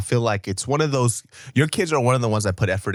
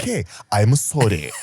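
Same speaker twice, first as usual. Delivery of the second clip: put-on lightly Korean-accented surrender; meek accented apology; 3 dB louder than usual. Repeating the old man's climbdown, Korean-accented apology. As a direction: give in with a mild Korean accent. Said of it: "is this, like, a fucking script".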